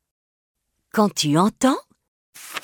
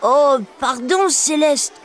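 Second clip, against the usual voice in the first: sad apology; 6 semitones higher than usual. Acted. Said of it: "dit-il tristement".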